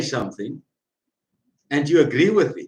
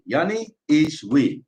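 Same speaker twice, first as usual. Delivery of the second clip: slow declaration; slower than usual. Shown as a demonstration. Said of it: "repeated, first take slow".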